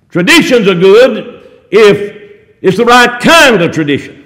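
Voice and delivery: slow "Traditions are good", pausing round "if"; emphatic slow repeat. Real, not acted. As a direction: spell it out slowly, leaning on "kind", then drop away on "of tradition".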